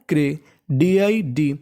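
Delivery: क्रे, डीआईडी sounded out slowly; syllable drill, slow. Shown as a demonstration. Teacher to students, sounding out chunks slowly. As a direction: spell each chunk slowly for class. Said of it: "क्या पढ़ना है?".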